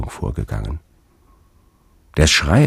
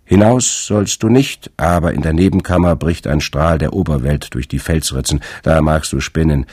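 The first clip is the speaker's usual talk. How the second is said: put-on stern old crone; 3 dB louder than usual. Old sister scolds Fabel.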